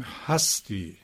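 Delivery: هستی stressed on the first syllable; هستی as the verb "you are", stress on هَس; stress shift demo. Shown as a demonstration. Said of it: "این فشار و این نبر". (هستی با تکیه روی هجای اول)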